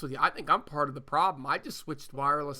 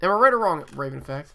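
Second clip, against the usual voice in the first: loud call for agreement; 7 dB louder, faster than usual. Real, not acted. Host loudly calls to his co-host on a bad line for agreement. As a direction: raise your voice to get his answer.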